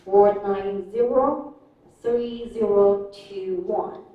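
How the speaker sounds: each digit slow and separate, "two one two" rising; slow, deliberate US phone number; slow American digits. Shown as a demonstration. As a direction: read the US number slowly, group by group. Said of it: "and for U S".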